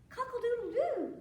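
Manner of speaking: high, loud, mock crowing; rooster crow. A narrator's reading. Storyteller as the cat who caught the crow, rooster crowing. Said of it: "making the noise of the rooster".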